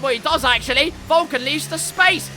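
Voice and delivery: animated live motor racing commentary; race play-by-play. Real, not acted. Race caller narrating an overtake to viewers, animated play-by-play. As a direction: call the racing moves as they happen.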